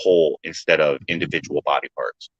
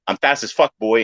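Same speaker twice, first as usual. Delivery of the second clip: lightly raised quote; plain-ish retelling; 3 semitones higher than usual. Retold or imitated. Repeating the line to his friend, lightly voiced. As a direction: say the line again, less pushed. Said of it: "I'm just gonna use that line".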